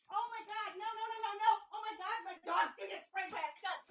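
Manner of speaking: high, hushed panic; frightened breathless whisper; terrified horror victim. Real, not acted. Dog about to be sprayed.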